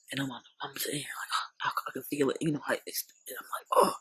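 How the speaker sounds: whispery, gasping re-enactment of holding back tears; hushed mock near-crying with a gasp; acted choking up. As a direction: act out tears coming on, mostly breath. Re-enacts starting to choke up.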